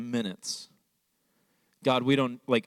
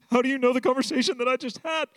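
astonished question, much higher in pitch; amazed, pitched way up; stunned; 12 semitones higher than usual. Retold or imitated. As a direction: blurt it out in disbelief. Seeing wife teary in lot.

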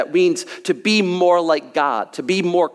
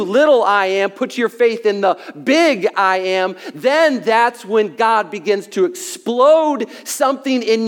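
full-force preaching. Acted. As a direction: preach it out with building fervor. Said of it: "That's good preaching right there".

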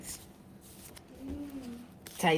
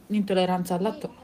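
hiccups; faster than usual. Real, not acted. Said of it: "scusate, singhiozzo".

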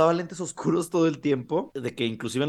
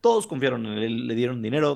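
usual speaking voice

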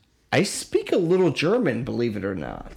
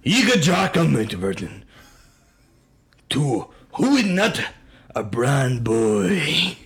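mock Japanese Hitler accent; slower than usual. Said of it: "That's Japanese Hitler".

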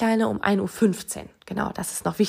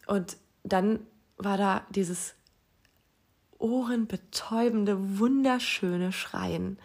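soft and slow, savouring each word; really moved by the memory, softly drawn out; moved, emotional; 4 dB quieter, much slower than usual. Real, not acted. Mother recalling her newborn's first cry, softly moved. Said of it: "es ist immer noch total emotional".

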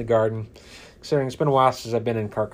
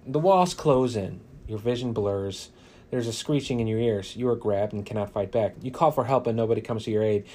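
story narration. A narrator's reading. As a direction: build dread line by line. Reads defeat text dramatically.

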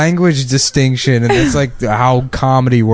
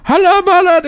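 much higher mock Arab accent. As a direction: put on a hammy Arab voice. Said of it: "doing, like, a Arab voice".

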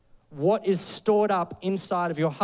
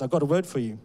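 put-on South African accent; 5 semitones lower, faster than usual. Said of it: "I'm gonna try and do a bit of a South African accent".

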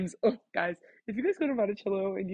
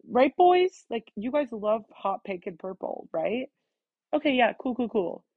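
mocking teasing; 3 semitones higher, slower than usual. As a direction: tease them in a singsong. Classmates mocking the silent seniors.

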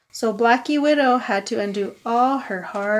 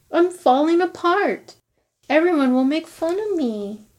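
higher, crying storybook voice; sad; 3 semitones higher than usual. Acted. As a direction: whimper it like a sad little skeleton. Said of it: "Hmm, he's sad".

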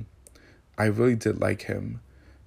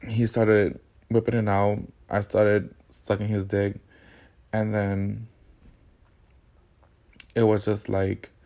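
usual speaking voice

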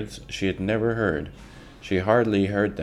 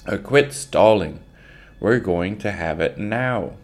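shouted; 3 semitones higher, 5 dB louder than usual. Acted. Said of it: "The voices shouted again".

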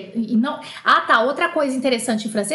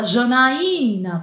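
stern mother; much slower than usual. Retold or imitated. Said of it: "Quando ela fala Janaína, ferrou, tá brava".

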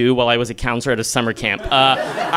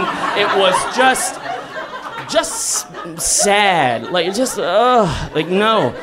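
laughing; 5 semitones higher, much slower than usual. Real, not acted. Laughing at own sad porn past.

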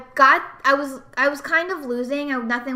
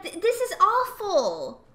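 higher, slow groaning complaint; annoyed ugh; 7 semitones higher than usual. Retold or imitated. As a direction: sulk over a ruined turn. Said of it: "and I was like".

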